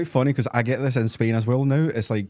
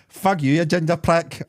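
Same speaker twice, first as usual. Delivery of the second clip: higher, louder retold insult yelled from a car; mock angry shout; 8 semitones higher, 4 dB louder than usual. Woman in drive-through car yells at him, a mock angry shout. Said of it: "woman shouts from car".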